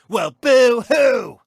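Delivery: slow, drawn-out sneering boo-hoo; mock their whining. Gloating host mocking a rival who cries foul, sneering.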